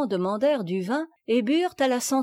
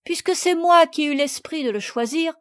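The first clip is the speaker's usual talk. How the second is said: put-on bright higher cheerful girl; 7 semitones higher, 5 dB louder than usual. A narrator's reading. Sophie cheerfully accepts her penance, higher and gay. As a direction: say it gaily, taking the blame lightly. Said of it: "dit Sophie avec gaieté".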